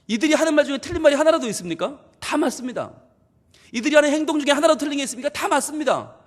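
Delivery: fast, high, rising sermon fire; fervent preaching. Acted. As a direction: drive the point home to the congregation. Preaching at full force. (열정적인 설교 톤)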